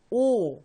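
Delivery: 오 drawn out slowly, one clear syllable; sounding out words. Shown as a demonstration. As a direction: say 오 as a slow, clear teaching syllable. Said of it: "따라해보세요".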